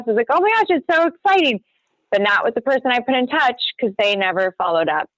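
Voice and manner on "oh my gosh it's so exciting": higher-pitched gushing, as retold; retold excitement. Agent retelling her reply to a client's listing news, mock-excited gush. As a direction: gush like you're congratulating a client.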